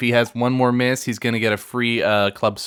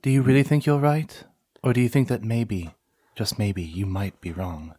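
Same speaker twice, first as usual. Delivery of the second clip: lightly voiced menacing character; Sarah Paulson impression; 3 dB quieter than usual. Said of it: "I was trying to do Glass".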